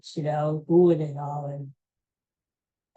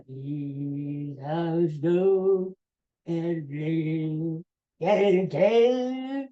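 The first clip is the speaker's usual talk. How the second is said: Impression of a singer; much slower than usual. Mocking a singer's singing.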